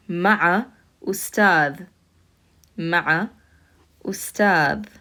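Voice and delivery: Ma'a ustad, each word apart and slow; teacher reading Ma'a ustad separately. Shown as a demonstration. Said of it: "How would we pronounce this?".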